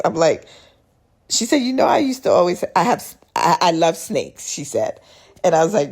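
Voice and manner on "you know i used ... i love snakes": high, louder, eager and laughing; a friend bursting to share a secret. Retold or imitated. Friend telling her she loves snakes, high eager voice.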